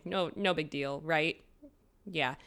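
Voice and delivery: dry, understated sarcasm; sarcastic. Real, not acted. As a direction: play it down softly, meaning the opposite. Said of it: "the sarcasm in my voice".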